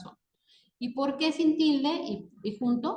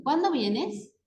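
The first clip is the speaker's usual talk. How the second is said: higher pitch, "Cuándo vienes" rising at the end; questioning tone; 5 semitones higher, slower than usual. Shown as a demonstration. Teacher demonstrating the accented question word, questioning tone. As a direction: ask "Cuándo vienes" with a clear question lift. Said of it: "marcar el tono con que se pronuncian".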